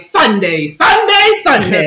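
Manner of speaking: booming hyped announcer chant; monster truck ad. Retold or imitated. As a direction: shout it like a monster truck rally ad. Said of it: "like, the monster truck".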